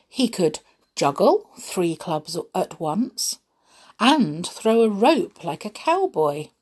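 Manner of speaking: measured, expressive storybook reading; unhurried tale-telling with lively emphasis; story narration. A narrator's reading. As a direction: read it to children, stressing key words. Reads children's adventure story.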